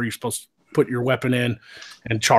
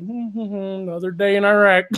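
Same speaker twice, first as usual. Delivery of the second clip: mock nonchalance; 7 semitones higher than usual. Acts himself standing by unbothered.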